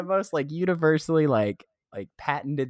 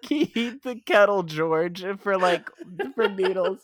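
put-on British accent; 7 semitones higher than usual. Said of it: "now you're, like, British".

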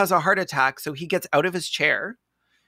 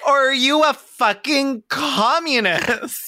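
mock closing argument; 7 semitones higher, 4 dB louder than usual. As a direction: play a blustering defendant before the jury. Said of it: "would be like".

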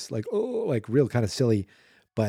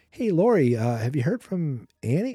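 higher-pitched mock phone inquiry; imagined caller; 5 semitones higher than usual. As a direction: play a casual caller checking in, pitched up. Imagined phone call to Laurie.

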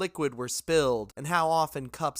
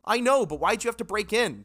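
raised, higher exasperated shout; yelling; 8 semitones higher, 5 dB louder than usual. Acted. Junk yelling at Jackson, a raised exasperated shout. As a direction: call out at him in frustration.

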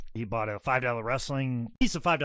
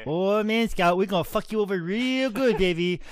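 Ric Flair impression; 5 semitones higher, 4 dB louder than usual. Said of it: "he's like".

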